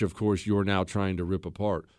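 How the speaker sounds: ordinary talk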